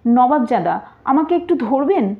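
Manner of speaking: Lutfa, faint, calls out to Siraj for help; cry out. Acted. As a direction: call out to him, pleading. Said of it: "আমি চিৎকার করে উঠি".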